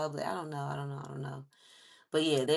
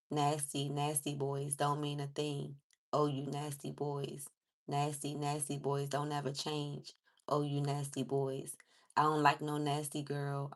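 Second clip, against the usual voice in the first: lyric reading; 2 semitones lower than usual. Acted. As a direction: read the lyrics out steadily. Reads lyrics off screen.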